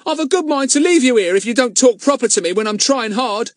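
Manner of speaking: panting. Acted. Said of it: "panted Ern".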